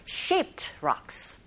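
"shaped rocks" with a long stressed AY in "shaped", final t light; stress on the vowel. Shown as a demonstration. Teacher models word stress, "shaped rocks" with strong AY, light t. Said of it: "에 부분에 강세 주셔서".

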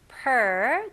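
per with the tongue pulled back for the R; per with a strong American R; clear R sound. Shown as a demonstration. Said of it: "그 R 발음 잘 해주셔야 됩니다".

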